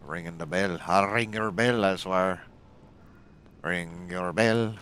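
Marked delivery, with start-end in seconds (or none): 0.9-2.4 loud, high mock threat. Threatening a game enemy. 3.6-4.7 drawn-out slow threat; slow menace. Acted. Repeating the threat slowly.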